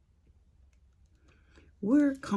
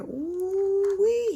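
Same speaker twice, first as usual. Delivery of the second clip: exclamation; 3 dB louder than usual. Real, not acted. Exclaiming how mad he was.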